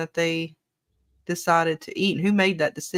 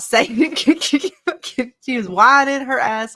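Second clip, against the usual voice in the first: mock whine; 6 semitones higher, 6 dB louder, much slower than usual. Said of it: "do the fucking whining voice".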